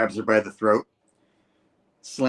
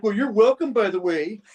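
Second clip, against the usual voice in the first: sarcastic; 10 semitones higher, 4 dB louder than usual. Acted. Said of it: "Spidey's like".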